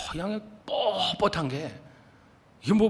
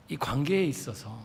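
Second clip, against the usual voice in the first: normal talking voice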